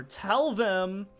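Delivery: bitchy, whiny mock threat; a rock singer. Singer threatening the crowd through a translator, bitchy whine. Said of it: "bitchy, whiny voice".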